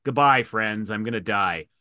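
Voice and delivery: understated imitation of a dramatic goodbye; mock dramatic farewell. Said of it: "they make it really dramatic".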